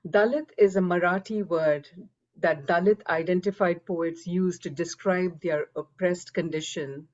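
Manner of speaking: measured, scripted delivery for an audience; formal reading. Real, not acted. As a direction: read a prepared introduction aloud, evenly phrased. Reads her written introduction aloud.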